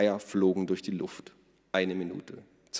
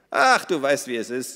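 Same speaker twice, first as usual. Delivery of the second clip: smacking lips; 5 semitones higher, 6 dB louder than usual. Acted. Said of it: "sagte Minna schmatzend".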